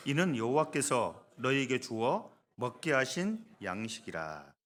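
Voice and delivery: measured, firmly projected Bible reading; scripture reading. Acted. Pastor reading the verse with the congregation, in measured scripture voice. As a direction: read the verse out slowly and clearly.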